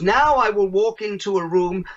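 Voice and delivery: lightly imitated German accent; retold German man, light accent. German man bargains with the keynote speaker, in a light German accent. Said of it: "excuse my German accent".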